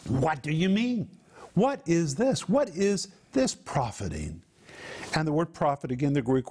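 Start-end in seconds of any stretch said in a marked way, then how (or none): 0.1-4.4 mildly incredulous rhetorical questions; emphatic questioning. Acted. Preacher voicing James's challenge, mildly emphatic questioning. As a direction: press each question, with pauses between them. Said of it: "It is an emphatic saying".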